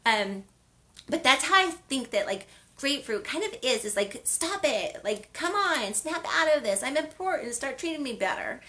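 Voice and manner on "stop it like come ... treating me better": higher, firm scolding, lightly acted; a hint of a no-nonsense mom telling someone off; tough Italian mom. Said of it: "almost like an Italian mom".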